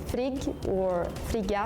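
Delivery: frigg and frigga with firm g; Swedish pronunciation. Shown as a demonstration. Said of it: "So in Swedish".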